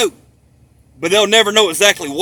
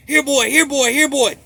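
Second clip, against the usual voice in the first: higher, sing-out dog call; dog-calling imitation; 6 semitones higher than usual. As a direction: call the dog in a raised pitch. Mimics calling a police dog.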